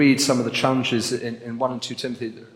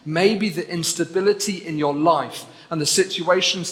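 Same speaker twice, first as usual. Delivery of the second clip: maybe punched at the start of the phrase; stress on maybe; 4 semitones higher than usual. Real, not acted. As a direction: lean hard on maybe, then carry on. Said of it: "I emphasize the word maybe".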